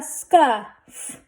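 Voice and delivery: scuff drawn out, f set apart; blended slowly. Shown as a demonstration. Teacher sounding out a word for readers, blended slowly. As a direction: stretch scuff, adding the f last. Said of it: "Let's read this".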